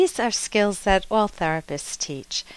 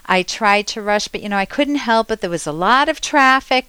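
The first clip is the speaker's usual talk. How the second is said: louder, rising defensive excuse-making; 2 semitones higher, 4 dB louder than usual. Shown as a demonstration. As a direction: rush out a guilty excuse. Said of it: "Can you hear my voice changing?".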